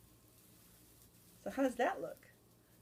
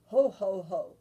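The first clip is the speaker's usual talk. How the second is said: Santa's ho ho ho; 10 dB louder than usual. Acted. Santa laughing happily again.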